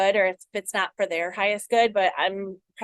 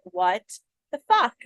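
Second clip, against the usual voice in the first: exasperated outburst. Retold or imitated. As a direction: throw up your hands, half-joking outrage. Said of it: "It's like".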